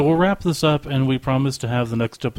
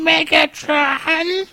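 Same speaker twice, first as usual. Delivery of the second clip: high slow drawn-out robot cry; robot villain call; 4 dB louder, much slower than usual. Acted. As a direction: stretch out the villain's name. Answers with Megatron's call.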